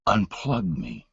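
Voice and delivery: faint, slow whisper-like plea; a frail man forcing out words; weak rasp. Retold or imitated. Dying father, tubes in throat.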